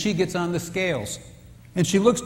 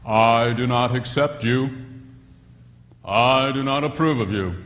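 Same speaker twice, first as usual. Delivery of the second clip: cold husband's message; 5 semitones lower than usual. Retold or imitated. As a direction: intone the rejection coldly. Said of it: "that message is this".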